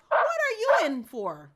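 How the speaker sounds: high, loud call; barked question. Acted. Dog asks caged dogs why they're here, barked. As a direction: shout the question across. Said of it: "she barked to the other dogs".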